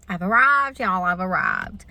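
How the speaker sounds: excited arrival. Real, not acted. Arriving for her second dose, excited to viewers. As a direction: burst in announcing you made it. Arriving at vaccine clinic, hyped.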